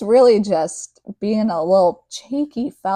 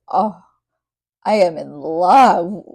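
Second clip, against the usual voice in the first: put-on teenage swooning; 6 dB louder, slower than usual. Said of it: "Teenage me was shook".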